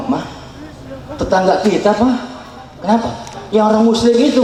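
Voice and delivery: lightly voiced wife telling her husband; chatty wife to husband; a hint of an eager wife's report. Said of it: "istri Nasrani ini lapor dengan suaminya".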